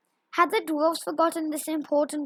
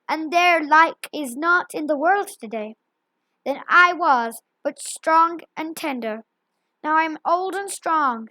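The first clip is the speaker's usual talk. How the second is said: gloating. Acted. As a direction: crow over his victories, growing prouder. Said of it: "he gloated".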